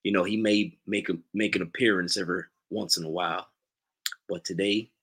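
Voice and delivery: put-on unhurried Southern accent with pauses. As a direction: announce yourself as a Southern character. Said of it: "in your best Southern accent".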